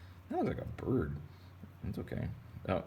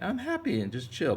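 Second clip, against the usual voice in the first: fish voice; 10 semitones higher than usual. Pretend. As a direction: play the happy fish. Fish voice continues.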